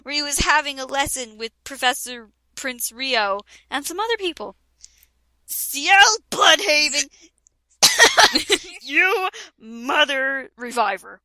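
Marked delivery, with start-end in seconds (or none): 5.4-11.2 mild mock yell. A narrator's reading. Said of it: "I yelled".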